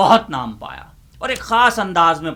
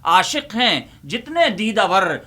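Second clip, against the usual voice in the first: rousing mushaira declamation, a little louder; declaimed poem; 5 semitones higher, 4 dB louder than usual. Acted. Uncle plays to his cheering students, declaiming.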